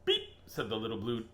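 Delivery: lilting storybook read; reading to a child. Acted. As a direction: read it like bedtime to a toddler.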